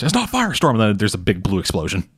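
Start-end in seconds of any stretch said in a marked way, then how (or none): 0.0-0.7 retold scream. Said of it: "Batman screams".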